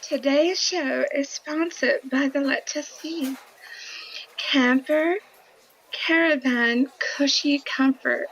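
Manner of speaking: attempted posh English accent. Shown as a demonstration. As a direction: read it in your best English accent. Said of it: "do your English accent".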